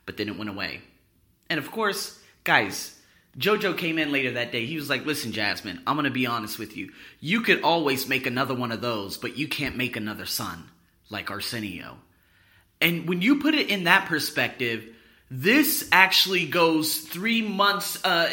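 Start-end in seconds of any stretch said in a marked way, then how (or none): 5.0-12.0 sincere. Retold or imitated. Neighbor talks mom down, sincerely.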